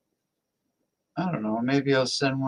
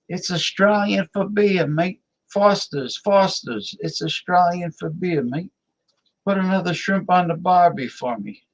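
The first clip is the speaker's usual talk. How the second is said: higher-pitched put-on Aussie accent; mock Australian accent; 5 semitones higher than usual. Host riffing on his friend from the Australian outback, mock Australian accent. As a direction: do a hammed-up Australian beer-ad voice. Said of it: "friend from the Australian outback".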